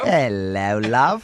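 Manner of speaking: mock British flirt. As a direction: flirt in a put-on British accent. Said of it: "He just kept getting closer, going".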